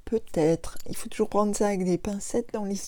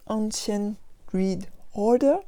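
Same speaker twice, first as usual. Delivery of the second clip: English accent. Shown as a demonstration. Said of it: "Vous admirerez mon merveilleux accent anglais".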